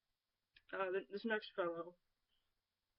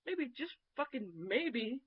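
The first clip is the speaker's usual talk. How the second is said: slow, pointed sarcasm; slow emphatic; 4 semitones higher, much slower than usual. Retold or imitated. Woman reading her reply to a creep, slow and pointed. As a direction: drag it out to rub it in.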